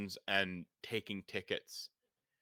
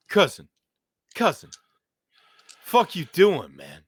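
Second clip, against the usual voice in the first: loud, higher Chicago street tough; gruff Chicago accent; 4 semitones higher, 10 dB louder than usual. Acted. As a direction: call out like a Chicago bruiser. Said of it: "your own amazing Chicago accent, and I just made it gruffer".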